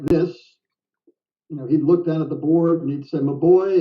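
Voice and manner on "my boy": put-on a light Texas drawl on an old friend's greeting; Texas accent. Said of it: "in his little Texas accent".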